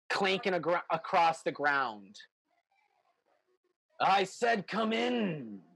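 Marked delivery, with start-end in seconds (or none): 4.0-5.6 drawn-out, ominous order; slow menacing command. Acted. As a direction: drag each word out as a threat. NPC repeats command slowly.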